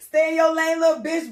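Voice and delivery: put-on loud drunk rap shout; belligerent shout. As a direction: yell the hook drunkenly.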